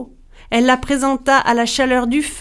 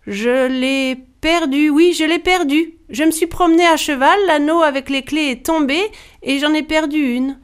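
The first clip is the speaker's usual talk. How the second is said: put-on higher-pitched, flustered young wife; panicked excuse; 7 semitones higher than usual. A narrator's reading. Wife lying to Bluebeard about the lost key, panicked. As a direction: stall on the first words, then rush out the lie.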